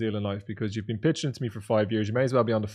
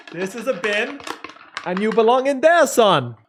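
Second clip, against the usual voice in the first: high, loud mock taunt; jokingly telling the guest he belongs in the bin, shouted high; mock trash talk shout; 10 semitones higher, 7 dB louder, slower than usual. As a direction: bellow it like a playful bully.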